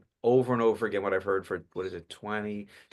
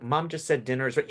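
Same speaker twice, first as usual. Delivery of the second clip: put-on slightly higher voice of a kid; child character; 4 semitones higher than usual. Shown as a demonstration. Grandchild telling Grandpa about dinner, higher character voice. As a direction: answer Grandpa as the youngster. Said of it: "It's obvious with the change of voice".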